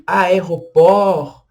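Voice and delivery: aéroport said slowly, silent final t; aéroport without t. Shown as a demonstration. Teacher shows the silent t in aéroport. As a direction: draw out aéroport, drop the t. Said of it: "a gente não pronuncia o T".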